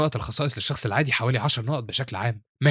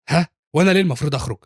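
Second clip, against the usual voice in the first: louder, mildly indignant protest; agitated; 4 semitones higher, 5 dB louder than usual. Acted. Teacher told to leave the room, agitated protest. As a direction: push back with a touch of outrage. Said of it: "بتقول له تشينج نا بانفعال".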